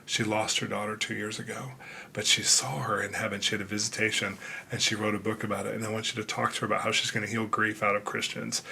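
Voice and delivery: soft, gentle retold voice of God; softly voicing the Father's words; quiet voice of God. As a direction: hush it down like a loving inner voice.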